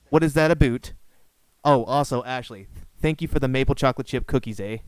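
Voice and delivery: hammed-up Canadian "a boot" and "eh"; imitating a Canadian. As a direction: quote him in a teasing Canadian accent. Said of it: "the most Canadian thing I have ever heard".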